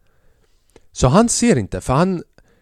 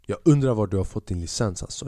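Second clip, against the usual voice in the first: muttered scorn; 5 semitones lower, 4 dB quieter than usual. Retold or imitated. Player insulting the referee, low scornful mutter. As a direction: sneer at the ref under your breath. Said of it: "jag bara".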